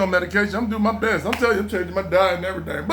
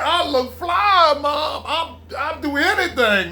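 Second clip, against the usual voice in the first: higher, begging mom for another chance; a touch of a begging son, pitched up; pleading; 3 semitones higher than usual. Retold or imitated. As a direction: beg like a kid who blew it. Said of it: "pleading with my mom".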